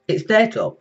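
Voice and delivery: lightly playing a stubborn partner; mock arguing. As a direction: act out one side of a petty quarrel. Voices one side of quarrel.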